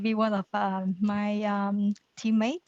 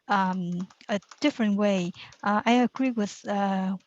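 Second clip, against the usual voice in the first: through a face mask. Real, not acted. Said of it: "forgive my mask because".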